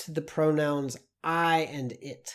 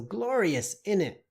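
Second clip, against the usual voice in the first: British slang; 5 semitones higher than usual. Retold or imitated. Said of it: "British slang".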